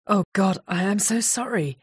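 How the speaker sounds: stammering apology. Acted. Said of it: "he stammered".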